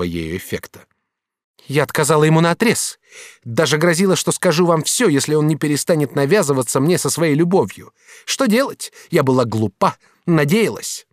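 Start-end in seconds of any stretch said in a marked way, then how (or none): 1.7-11.1 lighter, higher voice for Katrin; lightly voiced young woman, reproachful; young woman's voice. Katrin reproaching the master, lightly voiced woman.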